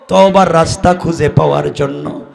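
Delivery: usual speaking voice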